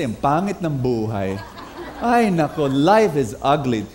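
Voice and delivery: gloomy complaint. Pretend. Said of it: "if you wake up and you say".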